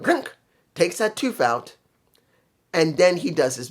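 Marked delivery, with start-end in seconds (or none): 0.0-0.3 mock grunt of frustration; short sound effect of an angry yank; imitated angry grunt. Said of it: "so angry, he goes".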